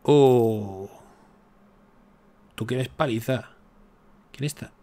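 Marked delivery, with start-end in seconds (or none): 0.0-0.9 loud startled exclamation; sudden loud oh of surprise; loud surprised oh. Real, not acted. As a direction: blurt it out, caught off guard. Sudden game event.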